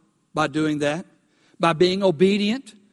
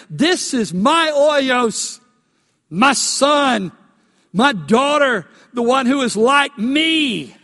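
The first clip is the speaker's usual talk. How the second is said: louder, slow, declaring; God's proclamation; 3 semitones higher, 4 dB louder, slower than usual. Acted. Preacher voicing God to the congregation, loud and slow. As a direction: proclaim it like the Father naming his child.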